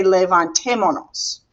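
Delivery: levantémonos with no S before nos; levantémonos as one word, stressed on TÉ; dropped S. Shown as a demonstration. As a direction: run mo straight into nos in levantémonos. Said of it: "you drop this S and you say".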